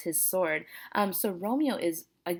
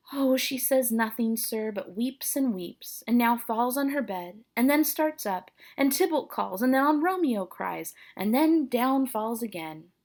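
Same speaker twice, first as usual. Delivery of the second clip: higher-pitched dramatic reporting; distressed nurse; 4 semitones higher, 3 dB louder than usual. Acted. Nurse telling Romeo of Juliet's weeping, agitated high voice. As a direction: recount it with mounting agitation.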